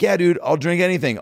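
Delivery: high, eager retold reply; eager acceptance. Comic accepts a drink with his idol, high and eager. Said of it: "I'm like".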